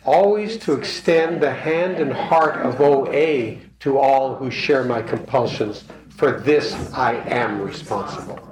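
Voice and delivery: slow, measured recitation of the pledge; reading out a creed with care; recited pledge. Real, not acted. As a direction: recite it slowly, like a vow said together. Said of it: "let's say it right".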